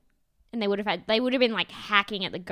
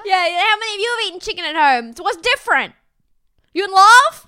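mock shout; 9 semitones higher, 11 dB louder than usual. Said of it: "voicing D K at the meeting".

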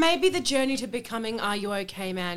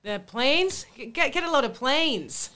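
halting mock stand-up opener; struggling stand-up. Comedian facing a silent audience, faltering delivery. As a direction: stumble and restart like a failing comic.

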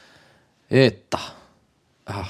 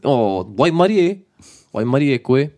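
envious; 4 semitones higher than usual. Shown as a demonstration. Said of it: "We wanna say".

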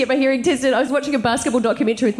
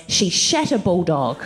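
slow laughing misheard quote; 7 semitones lower, slower than usual. Retold or imitated. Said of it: "what I heard her say was".

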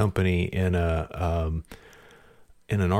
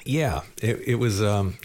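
talking between sips of coffee; drinking coffee; 4 semitones higher than usual. Real, not acted. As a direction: speak with coffee at your lips. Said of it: "pardon me, I'm drinking coffee while I'm talking to you".

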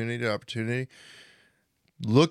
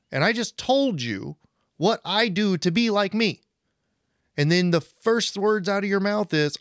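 exasperated retort; 5 semitones higher than usual. Real, not acted. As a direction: lay into their excuses, fed up. Venting frustration at excuses.

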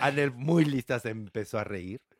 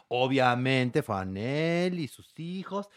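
ordinary talk, nothing marked

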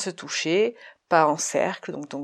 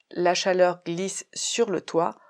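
slow demo; slower than usual. Shown as a demonstration. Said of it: "Donc dire la phrase".

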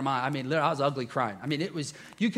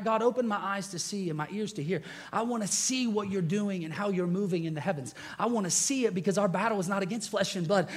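quoted prayer; 5 semitones higher than usual. Retold or imitated. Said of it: "I'm constantly praying".

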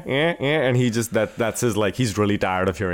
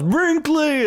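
calling out a name. Retold or imitated. Imagined scene, Benedetti calls dog.

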